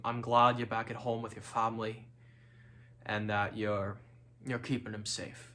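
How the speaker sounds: a shaky attempt at a Scottish accent; lightly put-on Scottish brogue, half-hearted; bad Scottish accent. Missing Gemma and begging a sandwich, mock Scottish accent. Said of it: "the sorriest excuse for a Scottish accent".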